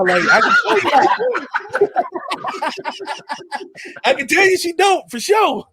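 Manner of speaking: high-pitched, slow laughing speech; laughing through words. Real, not acted. Laughing while talking.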